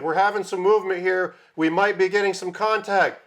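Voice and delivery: a touch of excited pilot on the radio. Retold or imitated. Retelling the helicopter pilot, mild radio chatter. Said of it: "He's like".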